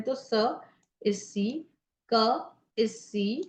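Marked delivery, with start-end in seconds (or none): 0.1-0.6 स as a separate sound; अलग ध्वनि. Shown as a demonstration. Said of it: "syllable निकालते हैं". 2.1-2.2 क as a separate sound; अलग ध्वनि. Shown as a demonstration. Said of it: "syllable निकालते हैं".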